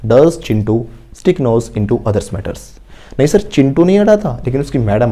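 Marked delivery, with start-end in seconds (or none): 0.1-2.6 very slow, word by word, for students to repeat; slow model sentence. Shown as a demonstration. Teacher modelling an answer for the class, very slowly. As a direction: spell each word out slowly like a dictation.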